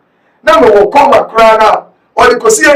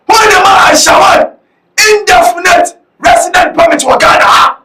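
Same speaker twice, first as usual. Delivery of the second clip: raised-pitch, forceful questioning; indignant challenge; 4 semitones higher than usual. Real, not acted. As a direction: demand answers like a public accuser. Challenging who granted a residence permit.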